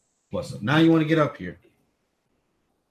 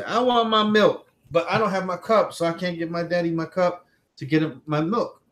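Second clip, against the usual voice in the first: voicing the toddler's wish; 4 semitones higher than usual.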